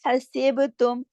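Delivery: हसीब तुम with breathy throat ह; slow tajweed recitation of हसीब तुम; Quranic recitation. Shown as a demonstration. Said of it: "सांस चलती है ना इस तरह गले में".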